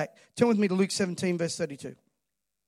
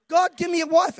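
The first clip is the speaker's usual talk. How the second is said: higher, louder begging whine; mock pleading prayer; 9 semitones higher, 6 dB louder than usual. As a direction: plead it like a lonely husband. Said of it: "We complain".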